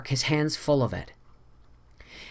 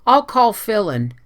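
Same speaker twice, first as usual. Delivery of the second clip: eager; 7 semitones higher, 7 dB louder than usual. A narrator's reading. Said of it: "suggested Anne eagerly".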